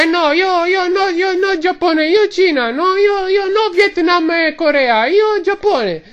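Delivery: high, protesting mock Asian-tourist accent; mock Asian accent, pitched well up; mimicked Asian tourist. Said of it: "Qualcuno mi dice".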